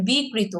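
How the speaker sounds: বিকৃত as "bi-krito"; long bi, single k in বিকৃত; একক ক. Shown as a demonstration. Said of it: "দুইবার হবে না". ("বিকৃত" বলো বি-কৃত)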